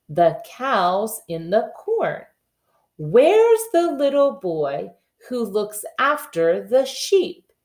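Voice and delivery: slow, sing-song nursery rhyme reading; reading the poem. Acted. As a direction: read it again slowly for the class. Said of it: "Let's read it one more time".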